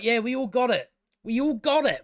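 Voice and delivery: high, insistent complaint that climbs on the repeat; fed-up exasperation. Real, not acted. Viewer answering writers who don't trust the audience, exasperated. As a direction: tell the writers off, pitch rising. Fed up with the show's over-explaining.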